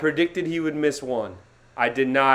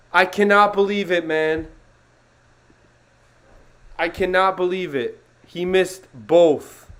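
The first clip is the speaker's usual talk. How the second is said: disbelief; 4 semitones higher, 4 dB louder than usual. Real, not acted. Fan reacting to missed throws.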